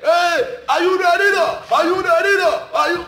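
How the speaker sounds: imitating a stage hype man; hype man shout. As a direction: fire up the audience like an MC. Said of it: "You never hear".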